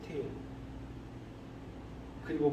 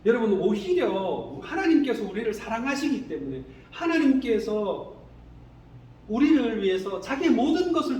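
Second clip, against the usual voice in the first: raised sermon voice; forceful, higher-pitched exhortation; emphatic preaching; 5 semitones higher, 5 dB louder than usual. Real, not acted. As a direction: press the point on the congregation.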